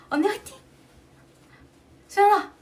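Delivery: playful imitation of fans shouting encouragement; cheery fans cheering. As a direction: call out like energetic fans cheering her on. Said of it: "이러면서 막 다니는 거예요".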